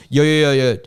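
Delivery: loud, rapid-fire attention grab; urgent calling out. Retold or imitated. Passenger as the tarmac doors shut, urgent. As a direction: call out to stop someone. Stopping the closing door.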